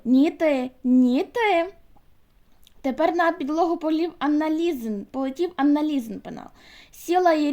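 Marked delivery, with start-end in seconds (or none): 0.0-1.7 squabbling. Acted. Girls quarrelling over the desk.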